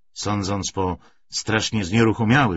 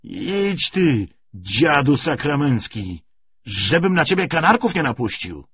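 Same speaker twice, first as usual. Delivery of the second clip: higher, louder angry brush-off; angry shooing; 7 semitones higher, 6 dB louder than usual. Acted. Corporal chasing off the carter, loud angry scolding. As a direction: drive the old carter away.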